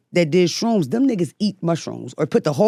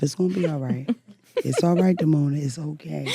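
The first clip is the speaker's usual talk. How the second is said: self-consoling; 3 semitones lower, 4 dB quieter than usual. Retold or imitated. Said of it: "I started to console myself".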